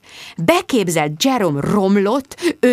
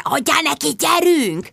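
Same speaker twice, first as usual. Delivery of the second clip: urgent, much higher egging on; feverish hiss; 8 semitones higher, slower than usual. A narrator's reading. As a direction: push her on, hissing. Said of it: "lázasan sziszegte". (lázas sziszegés)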